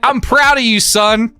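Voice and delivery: high, sing-song imitation of mom; mock proud mom. Mom answering her son's bus hijack, mock proud. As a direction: play mom's fake-proud reply, laughing. Mom's deadpan reply retold.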